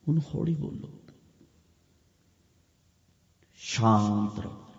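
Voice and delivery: hushed, calming instruction; soft and calm. Shown as a demonstration. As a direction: quietly settle the listener down.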